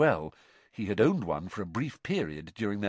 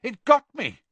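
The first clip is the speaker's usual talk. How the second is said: high, loud shout of pain; pained yell; 8 dB louder than usual. Acted. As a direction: yell as if just stung. Dean just burnt.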